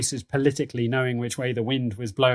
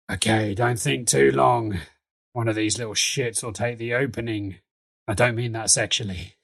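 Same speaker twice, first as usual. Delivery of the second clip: Nuggets's voice; 3 semitones lower than usual. Acted. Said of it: "he's like".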